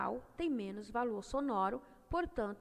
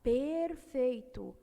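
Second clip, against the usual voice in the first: perfeito stretched out slowly; slow emphasis; 2 semitones higher, much slower than usual. Shown as a demonstration. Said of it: "o E C P é o encontro consonantal".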